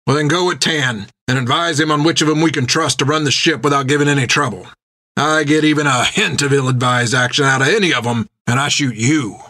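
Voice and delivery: lightly voiced skipper laying down terms; stern captain. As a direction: warn him firmly. Jack orders and threatens Armand.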